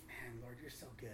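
soft, low, moved murmur of gratitude; a little emotional. Real, not acted. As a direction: quietly overcome while praising God. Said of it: "sorry if I get a little emotional".

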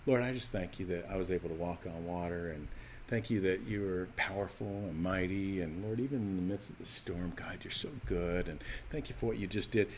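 mock a wordy, overdone prayer; elaborate prayer. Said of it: "long, elaborate prayer".

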